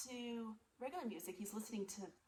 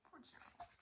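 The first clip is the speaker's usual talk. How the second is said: whispered pity; 20 dB quieter than usual. Real, not acted. Pitying aside.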